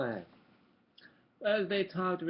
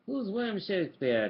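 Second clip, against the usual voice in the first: nervous; 6 semitones higher, 8 dB louder than usual. Acted. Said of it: "Donald asked nervously".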